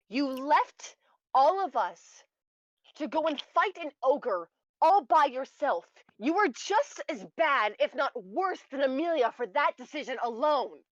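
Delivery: slow, loud angry scolding. Acted. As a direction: really tear into him. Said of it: "I said".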